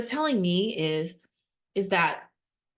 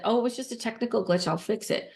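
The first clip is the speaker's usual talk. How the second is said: dismissive brush-off; 3 semitones higher, faster than usual. Retold or imitated. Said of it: "if I would have said".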